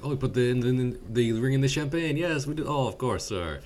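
lightly voiced fawning waiter; obliging waiter. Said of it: "he's like".

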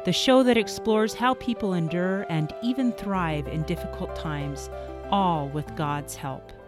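polished podcast host intro; warm, inviting show-opening read; beautiful voice. Acted. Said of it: "I could listen to your voice all day long".

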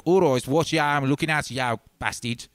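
Black Country accent. Shown as a demonstration. Showing how Black Country people talk, thick accent. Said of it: "black country people are even more so".

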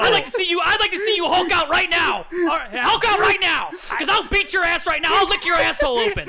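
high, loud ranting shout; hammed-up screaming host; Alex Jones rant. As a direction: scream threats like a crazed conspiracy host. Alex Jones impression yelling threats.

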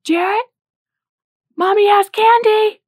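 very high, loud mom's scream; acted-out desperate high-pitched call. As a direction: holler it high across a store to a lost child. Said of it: "And she screamed out".

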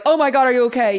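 retold freaking out. Retelling the meeting scene to a friend, mock panic. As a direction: replay the alarm at the bleeding woman. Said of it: "freaking out".

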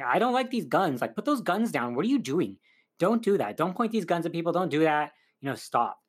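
lightly acted, insistent telling-off; retold scolding. Grandmother objects to the men grabbing guns, lightly acted scolding.

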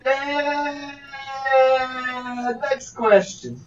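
hammy fake Nigerian accent; a put-on Nigerian lawyer voice. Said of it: "this is not a Nigerian accent".

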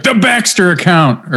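high, slow, drawn-out cartoon mom; Rugrats mom voice. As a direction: imitate a cartoon businesswoman mom. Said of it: "her mom would always be like".

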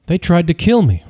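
high, raspy whispered plea. A narrator's reading. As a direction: rasp it out half-whispered. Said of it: "his voice raspy and whispered".

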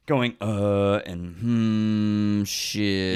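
drawn-out thinking noises, trailing into a curse; stumped hesitation. Shown as a demonstration. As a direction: act out racking your brain. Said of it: "if you're trying to, uh, do it without, like".

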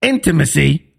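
"Intimacy" with a deliberate first-syllable IN stress. Shown as a demonstration. Man retrying the word, careful stress on IN of "Intimacy". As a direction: carefully lead with the beat on "In" of "Intimacy". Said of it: "You gotta put the emphasis somewhere".

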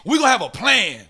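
rally them like a preacher; fired-up preaching. Real, not acted. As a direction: preach the plan to the room. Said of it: "got in here and got the preaching".

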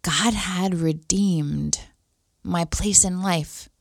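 fighting back tears, haltingly; really moved, pausing to hold it together; a little teary. Real, not acted. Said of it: "I'm getting a little teary-eyed".

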